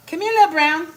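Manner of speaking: high, loud coo, stretching "Little brown". Pretend. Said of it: "let me see the brown".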